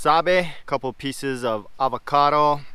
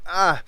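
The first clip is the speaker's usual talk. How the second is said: after eating wasabi; 6 semitones higher, 3 dB louder than usual. Real, not acted. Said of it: "I put too much wasabi in there".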